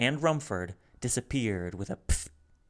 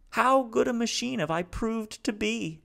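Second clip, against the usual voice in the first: high, louder, halting alien voice; speaking haltingly; 13 semitones higher, 4 dB louder than usual. Acted. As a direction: Salo piecing his words together. Salo's voice.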